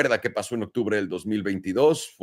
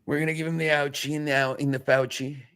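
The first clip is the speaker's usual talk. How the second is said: silly voice; 5 semitones higher than usual. Pretend. Joking repeat of the line.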